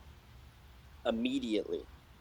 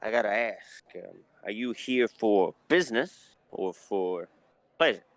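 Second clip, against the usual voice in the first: bartender voice; 2 semitones higher than usual. Acted. GM holds the bartender voice.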